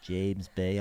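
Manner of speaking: put-on short try at a Liverpool accent; a singer. Answering co-host as the singer, Liverpool accent. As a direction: attempt the name in mock Scouse. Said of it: "I can't say that as a singer".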